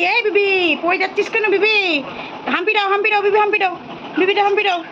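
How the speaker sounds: high coaxing pet talk. Real, not acted. Urging bird to comfort chick.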